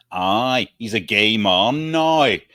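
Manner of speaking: lightly put-on Northern Irish twang; a hint of Belfast in the vowels; mock Northern Irish. Friend mimics the show's Northern Irish speech, lightly. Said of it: "Yeah, gay mon".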